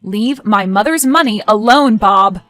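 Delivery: slow, firm warning; stern warning. Acted. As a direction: lay down the warning. Parting threat in quarrel.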